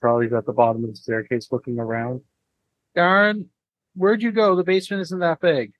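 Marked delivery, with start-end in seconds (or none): 3.0-5.7 higher, carrying call into the dark. Acted. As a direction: call for a friend who vanished. Calling out in basement.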